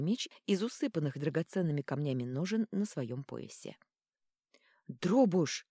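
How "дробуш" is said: urgent call. Acted. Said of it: "поторопила Вита".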